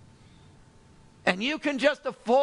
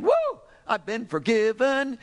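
joyful whoop; 2 semitones higher, 3 dB louder than usual. Acted. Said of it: "snapping your fingers saying".

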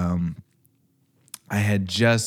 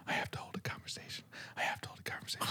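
anxious whispered self-talk; 20 dB quieter, much faster than usual. Retold or imitated. To himself on seeing coworkers, a hushed whisper. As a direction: whisper it to yourself, dreading it.

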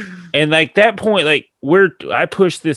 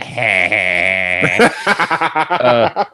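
mock laugh; much slower than usual. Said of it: "Ralphie's like".

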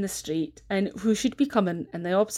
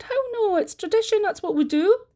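high, lively voiced grandfather; granda's voice; 13 semitones higher than usual. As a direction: speak up as the old baker. Granda voiced in told story.

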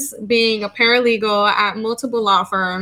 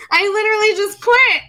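high, louder words through laughter; laughing while speaking; 11 semitones higher, 4 dB louder than usual. Real, not acted. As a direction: get the line out while still laughing. Laughing while telling of quitting.

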